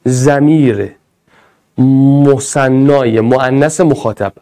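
slowly repeated quiz term. Shown as a demonstration. Teacher repeating the question slowly to the class. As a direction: stretch every syllable for the class. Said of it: "خوب گوش کن".

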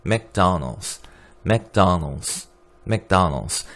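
맥도날드스 as mektanos, 도 turned to 아; 맥도날드스 with an 아 in the middle and a final s; American McDonald's. Shown as a demonstration. 수업에서 학생들에게 맥도날드스 발음 시범. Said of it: "도보다는 아에 가깝게 발음해요".

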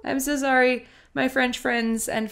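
high, slow, hammed-up French accent; mock French accent. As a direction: play a jokey Frenchman with a thick French accent. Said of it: "your accent is so fun".

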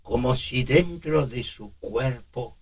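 put-on slow, trembling old man; shaky old man voice. Shown as a demonstration. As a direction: quiver through each word. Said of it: "Lo estamos dotando de".

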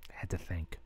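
breathy whisper, trailing off. Acted. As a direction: let the words fall to a whisper. Quietly admits needing to think.

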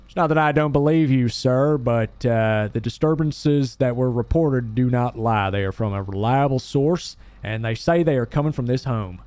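police officer. Acted. Officer telling homeowner the reports are reliable, official. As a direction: politely insist as the officer.

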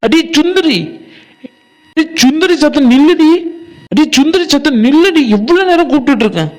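high-pitched call after someone leaving. Acted. Friend telling Sundari to stop and wait, calling out. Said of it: "ஏன்டி அங்க நின்னுட்டு கத்திக்கிட்டு இருக்காவ".

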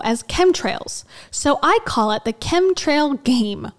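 slow, deliberate mock-guru read; over-enunciated reading. Reading out his writing on chemtrails, over-enunciated. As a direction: draw out each phrase and punch the key words. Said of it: "He speaks like this and tries to enunciate".

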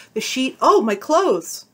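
loud, high, shocked cry; woman alarmed to find herself undressed; startled gasp. Acted. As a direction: gasp as you realize.

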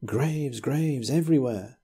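insistent. Acted. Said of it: "he insisted".

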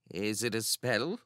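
softly voiced, hesitant question; a touch of nervousness; nervous. A narrator's reading. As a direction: ask it warily, a little hushed. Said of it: "he asked nervously".

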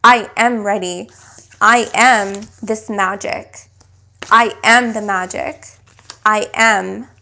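measured affirmation with weight on I and am; spoken affirmation. Shown as a demonstration. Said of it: "So say".

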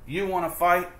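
high, loud, picking a fight; grouchy ladybug. Acted. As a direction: taunt them to fight. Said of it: "the grouchy bug said".

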